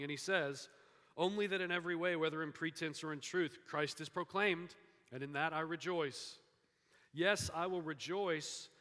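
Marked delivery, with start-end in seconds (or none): 1.2-8.7 loud, higher-pitched, emphatic rejoicing; joyful scripture reading in a raised voice. Acted. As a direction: proclaim the verse with joy. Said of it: "it is a tone of joy".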